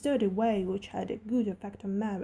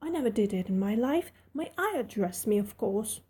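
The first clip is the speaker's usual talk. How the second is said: indignant. Acted. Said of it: "answered Mary quite indignantly".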